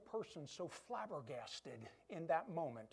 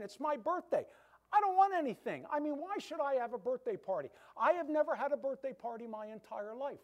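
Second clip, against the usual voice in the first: hurt protest; 5 semitones higher, 4 dB louder than usual. Retold or imitated. Agnes quarrels with her friend.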